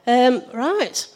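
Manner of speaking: hoarse, croaky morning voice. Real, not acted. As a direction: speak through a croaky throat. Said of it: "apologise in advance for my croaky voice".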